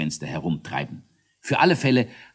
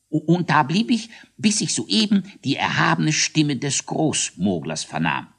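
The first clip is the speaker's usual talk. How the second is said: stuttering, high, pompous report; stammering Mogler; 4 semitones higher than usual. Acted. Kinkelwitz reporting the ghost to the Großmogler, stuttering. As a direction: stammer out the big news.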